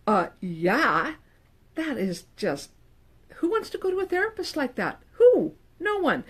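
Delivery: lightly lampoon a snooty therapist; mock condescending therapist. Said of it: "as a therapist, am like".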